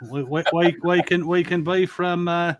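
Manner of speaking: hammed-up jolly old English accent. Shown as a demonstration. Host showing off an accent on stream, playful English accent. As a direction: stammer into a mock English accent. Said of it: "be from jolly old England".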